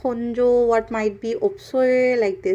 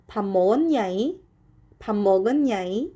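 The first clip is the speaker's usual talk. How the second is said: singsong Cholla dialect; much faster than usual. Shown as a demonstration. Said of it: "almost like they are singing".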